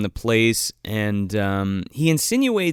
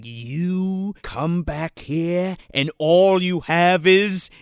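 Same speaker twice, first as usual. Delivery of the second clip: retold boss's scolding; 2 semitones higher, much slower than usual. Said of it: "and he's like".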